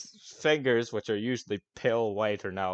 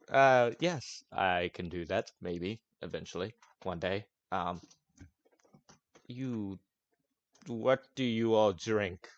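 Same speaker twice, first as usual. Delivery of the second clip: grumpy NPC. Acted. NPC rants about companion.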